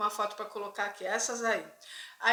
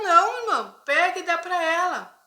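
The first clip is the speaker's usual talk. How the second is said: imagined urging; 6 semitones higher, 8 dB louder than usual. Retold or imitated. What he could have said.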